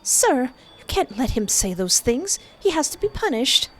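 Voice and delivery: indignant, rising to a high pitch. Acted. Student demands that the teacher punish Timur, indignant.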